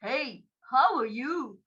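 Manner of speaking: slow, drawn-out crocodile hello. Shown as a demonstration. Storyteller leading children in the crocodile's greeting, crocodile voice. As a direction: say it slowly with stretched vowels, as a crocodile. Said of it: "say it in a crocodile voice".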